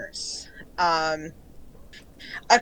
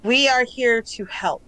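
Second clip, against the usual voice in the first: calm collective voice. Acted. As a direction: offer help evenly as many minds. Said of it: "the tone is very calm".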